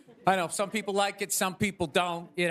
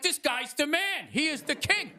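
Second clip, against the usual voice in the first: mock admiration; 4 semitones higher than usual. Everybody hailing the candidate who got shot, mock awe. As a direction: proclaim him a hero, played up.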